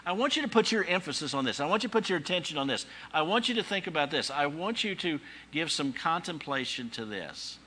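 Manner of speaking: lightly acted earnest exhortation; urging appeal. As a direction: press each request on the congregation. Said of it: "So he says".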